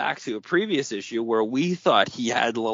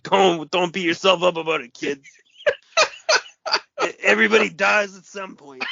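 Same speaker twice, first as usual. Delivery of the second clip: put-on light Chicago accent, higher; lightly voiced Chicago guy; 5 semitones higher than usual. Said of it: "my Chicago accent".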